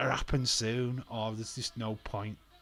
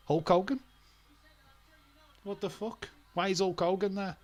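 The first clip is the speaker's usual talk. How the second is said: higher and louder, incredulous yelling; outraged disbelief; 9 semitones higher, 5 dB louder than usual. Real, not acted. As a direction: shout it like you can't believe he's there. Outraged at Hogan's ring intrusion.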